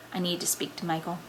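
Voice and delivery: low, restrained and brisk; stern dismissal. Acted. Mother wanting her son alone, quietly stern.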